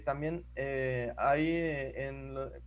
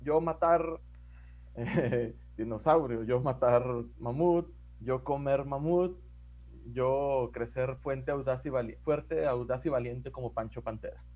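caveman voice; 4 semitones lower than usual. Retold or imitated. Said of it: "las personas de las cavernas dibujaban".

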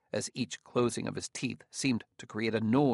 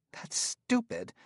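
muttered aside; 13 semitones higher, slower than usual. Acted. Gramianus grimaces, mutters.

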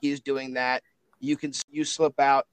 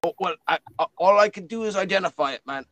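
put-on New Zealand accent; 3 semitones higher, faster than usual. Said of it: "my New Zealand bluey accent".

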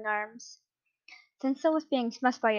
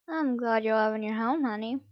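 sweet nothings. Acted. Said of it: "Senso cooed lovingly".

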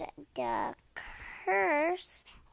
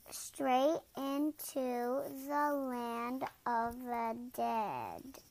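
Sphinx riddle voice. Acted. Sphinx voiced by other reader.

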